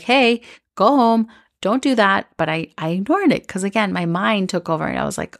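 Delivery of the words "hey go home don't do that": louder, higher slowed warning; a slowed inner nudge, raised a little. Retold or imitated. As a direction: call her home like a gut alarm.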